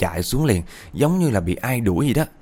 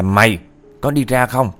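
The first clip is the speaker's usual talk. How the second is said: raised voice, imitating a threatening grandma; retold scolding shout; 3 semitones higher, 4 dB louder than usual. Grandma threatens the spirit to leave, retold loud scolding. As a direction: push louder to scare the spirit off. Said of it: "bà ngoại mới quát to luôn".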